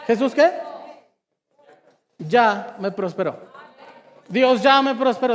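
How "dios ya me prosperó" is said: loud, emphatic proclamation; emphatic declaration. Real, not acted. Preacher declares the point to the congregation, loud and emphatic. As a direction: proclaim it loudly to the room.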